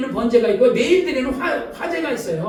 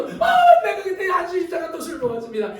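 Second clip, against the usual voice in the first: mock confession; 3 semitones higher than usual. Preacher mimics a deacon confessing drinking again, mock wail. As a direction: overdo the remorse like a mock penitent.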